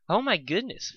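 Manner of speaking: a gentle pony surprised, voiced high; Fluttershy voice. Fluttershy hearing gossip about Pinkie, a light high gasp. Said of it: "I'm still talking in Fluttershy's voice".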